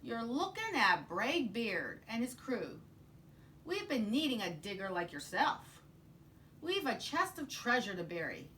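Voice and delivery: a hint of a swaggering captain; pirate voice. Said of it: "he said".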